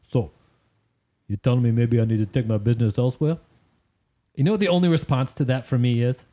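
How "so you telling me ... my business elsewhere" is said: imitated cocky Jersey accent; puffed-out-chest Jersey. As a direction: puff your chest out, Jersey-style challenge. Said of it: "classic Jersey puffed out chest kind of way".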